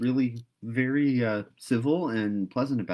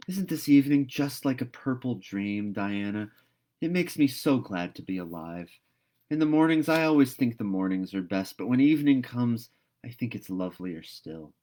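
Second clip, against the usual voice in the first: dreamy Anne; 4 semitones higher, 5 dB louder than usual. Acted. Anne's dreamy rapturous speech.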